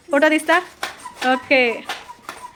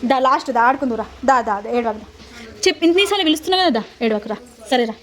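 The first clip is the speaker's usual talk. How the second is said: soothing; 5 semitones lower, 3 dB quieter than usual. Real, not acted. Coaxing a crying child.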